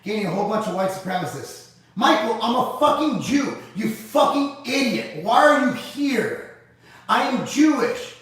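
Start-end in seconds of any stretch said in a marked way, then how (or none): 1.9-8.2 higher, slow, emphatic disbelief at a troll; exasperated retort. Real, not acted. Streamer slowly scolding a commenter who called him a white supremacist, incredulous.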